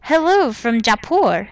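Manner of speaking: a light, badly faked Indian accent from Jaipur; half-hearted Indian accent, barely put on; terrible Nishanti accent. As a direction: read the letter in a mild, hammed-up Indian accent. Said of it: "I'm doing a terrible Nishanti accent".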